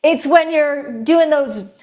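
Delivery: high, punchy motivator voice; rally a team at a leadership retreat; upbeat energizer. Shown as a demonstration. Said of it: "The energizer is upbeat".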